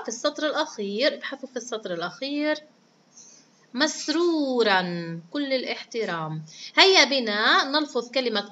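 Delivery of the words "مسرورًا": مسرورًا ending in a clear "-an"; slow, higher مسرورًا with "-an" sounded; fatha tanween ending. Shown as a demonstration. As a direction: say مسرورًا with the fatha nunation voiced. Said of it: "تحتوي فقط على تنوين الفتح".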